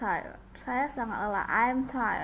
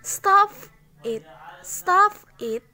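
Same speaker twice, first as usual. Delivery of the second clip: loud, higher sharp stop it; firm shouted stop it; shouted command; 7 semitones higher, 9 dB louder than usual. Shown as a demonstration. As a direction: snap stop it out like an order. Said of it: "teacher demonstrating a command".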